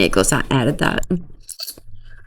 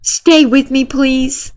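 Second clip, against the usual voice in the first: higher, hammed-up pleading voice; mock girly plea; 9 semitones higher, slower than usual. Girl begging Nick to stay, mock high plea. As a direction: beg like an overdramatic teen.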